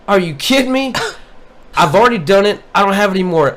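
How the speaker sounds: incredulous retold snap; retold exasperation. Retold angry reply to coworker.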